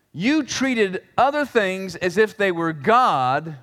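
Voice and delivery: slow, deliberate accusation; God accusing. Acted. God accusing Jeroboam of idolatry, slow and deliberate. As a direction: lay out the charge word by word. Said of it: "So God is saying something like this".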